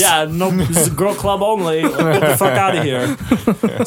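a slightly weird put-on girl voice. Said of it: "That's a weird girl voice that you got".

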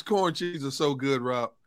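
usual speaking voice

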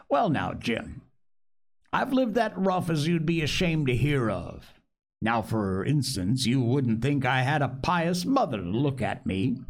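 put-on chatty, rambling old castaway; lightly voiced castaway. Castaway confessing his past to the boy, lightly voiced. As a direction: confide a rough life to a new friend.

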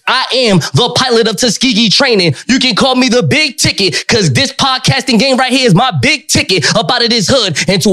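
hyped-up wrestling promo voice. Acted. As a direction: cut a promo like a pro wrestler. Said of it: "Cut that promo".

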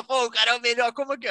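high, loud amazed outburst; amazed exclamation. Retold or imitated. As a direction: gush in disbelief at the best player. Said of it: "a gente ficava".

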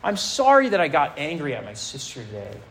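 half-hearted impression of a self-justifying pray-er; mock blame-shifting prayer. Preacher mimics a teen's excuse prayer, mildly whiny. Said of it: "We do this when we say prayers like this".

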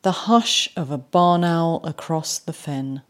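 slow, savoured reading of the line; quoted poem line. Shown as a demonstration. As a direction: linger over "hush". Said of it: "look at what he says in his phrase".

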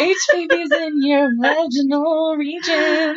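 slow, breaking up with laughter; crying with laughter. Real, not acted. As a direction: push words out through laughing tears. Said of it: "made me laugh so hard I'm crying".

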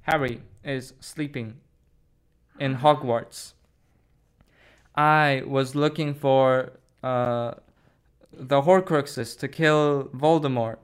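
a hint of an old wizard; Dumbledore. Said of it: "I am Professor Dumbledore".

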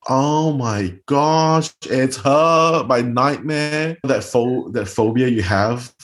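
as if your nightmare just walked in; shocked recognition. Retold or imitated. Recognising her feared rejecter.

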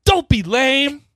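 mock slam poetry. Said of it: "Keep going".

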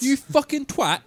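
mock shout. Reviving the word twat, playful loud yell. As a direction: bellow the insult in fun.

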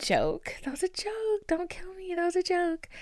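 jokey whispered don't kill me. Real, not acted. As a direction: whisper it sheepishly.

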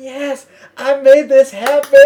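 high, loud, drawn-out exulting; retold triumph. Fan whose request got played, loud triumphant cheer. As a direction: crow it over the crowd.

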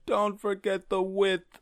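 slow, drawn out and playful; drawn out emphasis. Real, not acted. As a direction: stretch every word out teasingly. Playful exaggerated aside.

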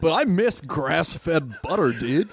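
slow, lightly voiced dude; cool dude. Puppy longing for fine butter, cool dude. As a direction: drag it out like a laid-back surfer. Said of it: "has to be kind of a cool guy".

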